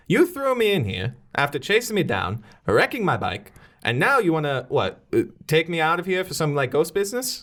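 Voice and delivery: mildly indignant, pitch swooping up; lightly voiced aggrieved prisoner; indignant inmate. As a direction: protest to your captor in character. Prisoner protests to her captor.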